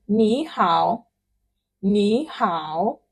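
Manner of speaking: "ni hao" slowly, with "ni" rising and "hao" dipping; rising "ni", full dipping "hao"; tone sandhi. Shown as a demonstration. Teacher demonstrating sandhi to learners, slow and careful. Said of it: "ni changes to second tone".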